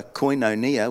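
a lightly posh "koinonia"; posh pronunciation. Retold or imitated. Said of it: "which sounds much more posh".

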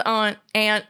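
"aunt" said as "ahnt", then as "ant"; "aunt" with broad vowel, then short vowel; both pronunciations of aunt. Shown as a demonstration. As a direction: contrast the two ways of saying "aunt". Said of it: "I say aunt, you say aunt".

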